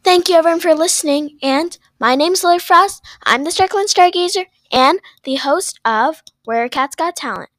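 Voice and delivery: loud, excited outro; loud sign-off. Real, not acted. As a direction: shout the goodbye. Host signs off.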